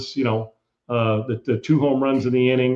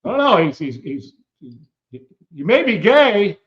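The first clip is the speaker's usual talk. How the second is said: imitating Kilmeade; 8 semitones higher than usual. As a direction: replay his awkward question pitched up high. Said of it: "this is the way he said it. He goes".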